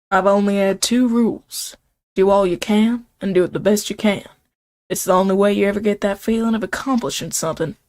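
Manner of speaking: put-on earnest advice in an amateur Southern accent. Colonel Sanders sharing his two rules, Southern accent. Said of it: "that's my best Southern accent".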